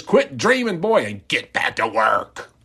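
a bossy elf foreman barking orders; gruff boss. Retold or imitated. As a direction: snap at the dreaming boy. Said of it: "Boss Elf says".

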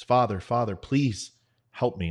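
retold plea. Trapped soldier begging a passing priest, retold plea. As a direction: beg for help, acted with moderate urgency.

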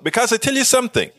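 a hint of put-on indignation; irate in character. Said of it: "a little bit irate, sort of in character".

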